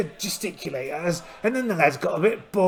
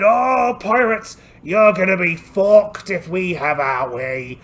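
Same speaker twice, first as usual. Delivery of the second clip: taunting; 7 dB louder, slower than usual. Acted. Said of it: "and we said".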